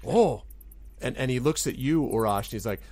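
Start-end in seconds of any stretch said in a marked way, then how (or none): 0.1-0.4 high, loud gasp of understanding; sudden realisation. Acted. Goblin finally understands the boss, wide-eyed surprise. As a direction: let it dawn on you loudly. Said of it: "Gleek's sort of eyes widen".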